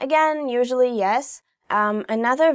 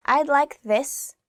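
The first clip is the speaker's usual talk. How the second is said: slow, higher, with emphasis on "this"; stress on THIS; 5 semitones higher, slower than usual. Shown as a demonstration. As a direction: take it slowly and lean on "this". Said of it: "you should emphasize the word".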